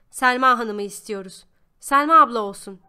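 loud, insistent group demand; crowd shout. A narrator's reading. Inmates demanding their team leader, shouting. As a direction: call it out loudly like a chanting crowd. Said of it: "diye bağırdı herkes bir ağızdan".

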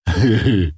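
short thuggish laugh; sneering chuckle from the lackeys; mocking snigger. A narrator's reading. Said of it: "подпели парубки".

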